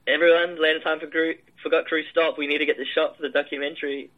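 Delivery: mildly acted call for attention; calling out to crew. Director stopping the film crew for a documentary shot, retold call-out.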